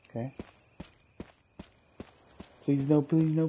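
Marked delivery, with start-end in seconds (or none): 2.6-3.5 pleading, louder and higher; anguished denial. Real, not acted. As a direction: beg it in real panic. Panicking over lost battery.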